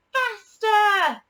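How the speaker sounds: high, loud gleeful shout; excited shout. A narrator's reading. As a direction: cheer the train on. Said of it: "shouted Katy and Ben".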